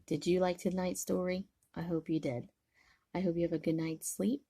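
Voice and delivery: tender goodnight. Real, not acted. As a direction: whisper them off to sleep with love. Grandma says goodnight to child.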